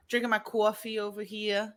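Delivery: hammed-up New York accent; thick, playful New York talk. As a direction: lean into the New York vowels.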